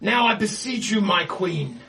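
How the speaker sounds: beseech your dark queen; pleading villain. Acted. Captain pleads to his queen.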